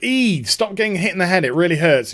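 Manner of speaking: lightly voiced complaining father; a mock fatherly telling-off; imitated scolding dad. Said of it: "her dad's just like".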